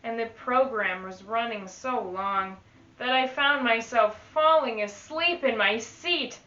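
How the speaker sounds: put-on lively read-aloud to children; teacher reading a rhyming book to the class; storybook reading. Teacher reads picture book aloud.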